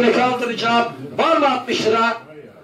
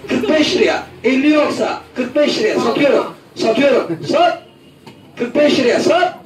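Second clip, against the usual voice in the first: auctioneer. Acted. Auction calling bids, laughing.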